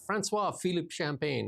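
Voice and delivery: Francois Philippe Champagne said slowly in French, nasal vowels; savoured French name. Shown as a demonstration. Host relishing the minister's French name. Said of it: "He's got the best name".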